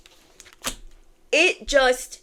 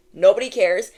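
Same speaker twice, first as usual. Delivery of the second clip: Nobody cares said louder; louder repeat; 5 dB louder than usual. Shown as a demonstration. Reader dismisses haters, louder second time. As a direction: push Nobody cares out firmly. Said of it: "repeated louder".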